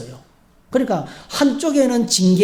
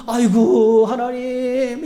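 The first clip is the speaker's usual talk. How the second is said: mock wailing lament; 5 semitones higher, much slower than usual. Shown as a demonstration. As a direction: overdo the wailing cry as a bad example. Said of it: "이러면서 통곡하는 게 아닙니다". (과장된 통곡 흉내)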